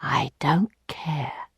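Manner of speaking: slow cold whisper. Acted. Lheureux leaning to Emma's ear, cold whisper. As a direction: hiss it slowly into her ear. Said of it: "he whispered in her ear".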